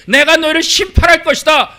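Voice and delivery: loud, high preaching shout; proclaiming shout. Acted. Preacher declaring God's judgment on Israel in a ringing shout. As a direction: thunder out the judgment.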